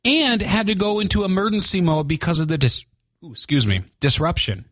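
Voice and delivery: hiccuping mid-sentence; with hiccups. Real, not acted. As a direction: talk through the hiccups. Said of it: "I got the hiccups this morning".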